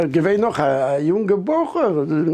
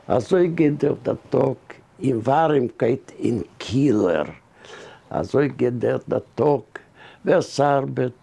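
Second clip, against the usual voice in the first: poem recitation; 4 semitones lower than usual. Acted. Man recites a learned spring poem to the interviewer, measured recitation. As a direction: recite it line by line, drawing out the line endings.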